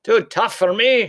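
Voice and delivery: loud, high, slow scoff; indignant shout. A narrator's reading. Giant answering Oonagh's taunt, loud indignant. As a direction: shout it back offended. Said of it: "shouted Cuchulainn".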